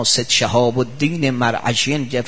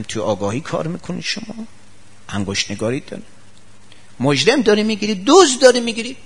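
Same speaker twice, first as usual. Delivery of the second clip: sarcastic jab; 5 semitones higher than usual. Acted. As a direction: needle him like a detective. Mocking fussy master sarcastically.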